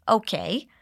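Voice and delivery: Okay with a rising question tune. Shown as a demonstration. Teacher modeling a confused coworker's reply, rising. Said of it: "but as a question".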